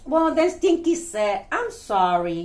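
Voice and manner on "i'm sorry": low, sheepish sorry; reluctant apology. Acted. Stinky apologises to the bug girl, low and sheepish. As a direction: drop the pitch and apologise.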